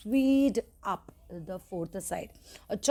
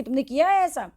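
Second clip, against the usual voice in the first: stern question; 5 semitones higher, 6 dB louder than usual. A narrator's reading. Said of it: "अब उन्होंने पूछा कि".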